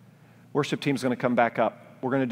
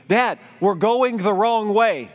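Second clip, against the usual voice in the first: daughter from back seat; 10 semitones higher, 7 dB louder, slower than usual. Retold or imitated.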